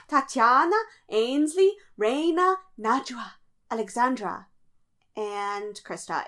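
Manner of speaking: dramatic elimination announcer. Acted. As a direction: read names like a host. Reading out the call-out order.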